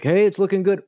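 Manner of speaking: mock neighborly greeting. Neighbors coming over to see the work, imitated cheery call. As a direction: imitate a neighbor calling out approval.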